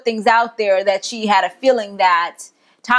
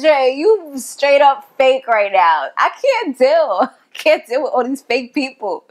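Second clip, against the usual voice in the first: exasperated call-out; 4 semitones higher than usual. Retold or imitated. Viewer calls out Andre for being fake, exasperated. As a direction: lean on the words, fed up.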